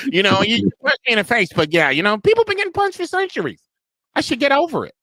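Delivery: high squeal through laughter; loud laughing mock argument; laughing mockery. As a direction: crack up while mocking the argument, loud and high-pitched. Jokes mimicking the get-over-it argument.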